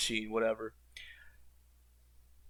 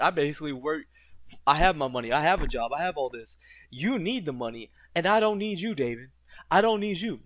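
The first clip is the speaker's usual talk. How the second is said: voicing the dealer. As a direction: play the smug dealer laying out his leverage. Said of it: "The dude understands that".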